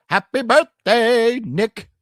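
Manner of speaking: high, slow, lifeless birthday wish; imitating a girl whose soul leaves her body; high deflated podcast girl. Imitating the podcast girl's dead high birthday wish. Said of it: "And she goes".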